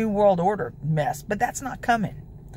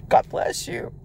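hushed whispered God bless you. Real, not acted. Quiet blessing before a repeat.

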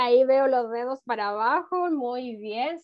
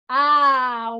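ordinary delivery

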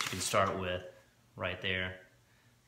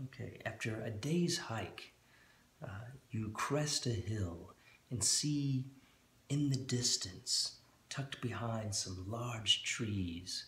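scene narration; slower than usual. Acted. Dungeon master scene setting.

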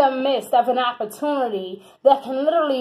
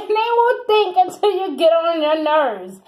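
laughing; 5 semitones higher than usual. Real, not acted. Laughs at Virgos.

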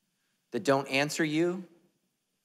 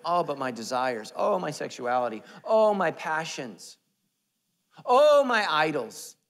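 mock lament; 4 semitones higher, 6 dB louder than usual. Pastor mimicking reluctant followers, mock lament. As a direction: moan each one more melodramatically. Mocking objections to giving up.

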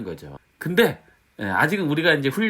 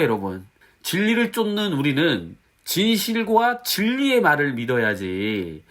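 normal talking voice

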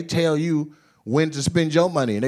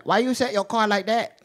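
higher, softer mock Asian dealer accent; comic Asian dealer voice, pitched up; 5 semitones higher, 6 dB quieter than usual. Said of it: "Asian dealers are the best".

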